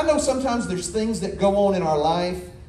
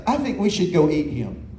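lightly voiced hungry dog, a bit lower; a dog plotting dinner, understated; dog talking; 4 semitones lower than usual. Preacher voicing a dog plotting to eat him, lightly low. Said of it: "I heard him say".

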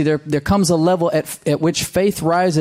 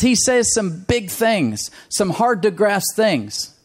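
Sarah voiced higher and slower, in wonder; voicing Sarah; 6 semitones higher than usual. Preacher voicing Sarah as she marvels at God's promises. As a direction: let Sarah marvel slowly, pitched up in awe. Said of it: "She says".

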